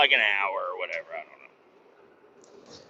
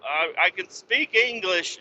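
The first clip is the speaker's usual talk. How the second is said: much higher, louder, slow whoa; alarmed shout; 7 semitones higher, 3 dB louder than usual. Retold or imitated. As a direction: stop them burning you, shouting. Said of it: "I'm like".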